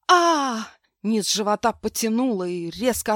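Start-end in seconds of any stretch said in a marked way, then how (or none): 0.1-0.7 high loud scream of agony; scream of pain. Acted. Woman in labour screams, loud scream of pain. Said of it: "закричала надрывно во всё горло".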